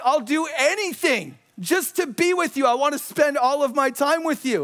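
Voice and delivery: mildly hammed-up smitten devotion; lovestruck gushing. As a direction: gush it, high and eager.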